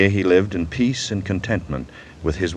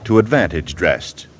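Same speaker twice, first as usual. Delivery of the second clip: recited verse; 3 dB louder than usual. Acted. Host opens the show quoting Pope, declaiming. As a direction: deliver the lines like a quoted poem. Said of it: "Alexander Pope was speaking about poetry".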